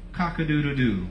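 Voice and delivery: low, soft mock rooster call; a hint of a rooster; rooster crow. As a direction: drop low and crow it quietly. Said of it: "Jesus looks at him and says".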